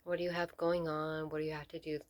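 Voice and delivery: measured meditation guide with long pauses between phrases; guided meditation. Real, not acted. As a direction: lead them gently into stillness, leaving space to breathe.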